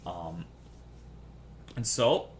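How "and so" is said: ordinary talk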